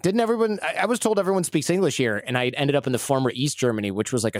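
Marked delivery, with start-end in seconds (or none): 0.0-2.2 retold surprise. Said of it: "I was like".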